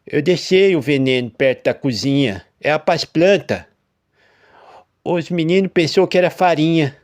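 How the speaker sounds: high, loud, stammering confession; voice failing. A narrator's reading. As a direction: falter through a guilty confession. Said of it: "com a voz falhando".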